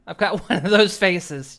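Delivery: laughing. Real, not acted. Streamer echoes NPC line, laughing.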